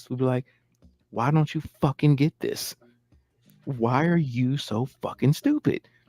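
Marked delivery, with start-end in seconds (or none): 1.1-5.8 mock condescending, talking-down genius voice. Speaker imitates how a genius would talk to everyone else, mock genius talking down. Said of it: "how a genius would talk to any of us".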